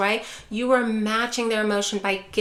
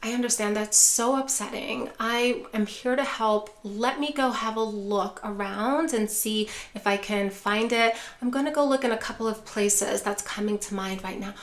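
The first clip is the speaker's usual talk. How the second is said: calm reassurance. Shown as a demonstration. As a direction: reassure her and guide her to the kitchen. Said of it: "and then you're going to say".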